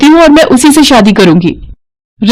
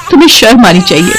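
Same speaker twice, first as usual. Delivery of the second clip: fast, tearful rebuke; tearful scolding; faster than usual. Acted. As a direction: scold him through tears. Wife scolds drunk husband. (पत्नी शराबी पति को रोते हुए डांटती है)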